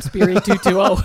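loud playful imitation of a child's yell; retold screaming. Child yelling Mass response down store aisle, retold screaming. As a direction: belt it out, mimicking your younger self. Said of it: "running up and down the aisle screaming".

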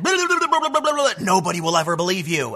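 hammed-up prank quote that tails off plain; lightly voiced celebrity prankster; mock Bill Murray line. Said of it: "Bill Murray came up to me and said".

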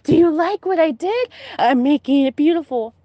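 high, eerie sing-song voice pitched well up; creepy aunt voice. Retold or imitated. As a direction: play the unsettling aunt proudly showing off her work. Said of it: "And she just was like".

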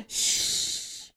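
whispered laughing shush. Real, not acted. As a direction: hush them with a whispered shh. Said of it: "I just shushed you".

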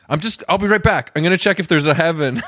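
breezy TV newscaster signing off; investigative journalist. Pretend. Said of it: "Like an investigative journalist".

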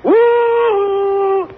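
high hooting female moose call. Retold or imitated. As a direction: hoot it like a lovesick moose. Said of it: "The female moose calls to the male moose".

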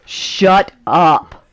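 loud curt shut up; loud curt order to the dog; snapped at the dog. Acted. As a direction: bark it at the yapping dog. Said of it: "looks at the dog and goes".

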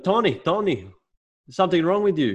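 high, mock scolding lady; nagging neighbour lady. Neighbour lady scolding Tony over the mask, high mock nag.

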